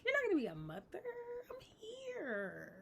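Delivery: hammed-up Aunt Flo, fake sobbing. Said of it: "Aunt Flo came and was like".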